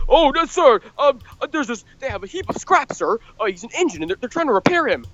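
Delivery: stuttering, fumbling, slightly high-pitched. Retelling a film scene, imitating Spencer stuttering. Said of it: "Spencer is stuttering and he says".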